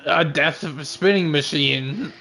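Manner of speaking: words broken by laughter; laughing. Real, not acted. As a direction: say it through a laugh. Laughing at the homemade Beyblades.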